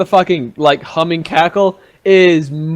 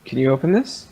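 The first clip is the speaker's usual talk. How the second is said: whisper; 4 semitones lower, 6 dB quieter than usual. Acted. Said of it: "kind of a whisper".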